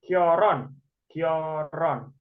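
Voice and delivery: Kyoron in drawn-out syllables; reading demonstration. Shown as a demonstration. Teacher reads Kyoron for students, pronunciation demo. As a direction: model "Kyoron" slowly, syllable by syllable.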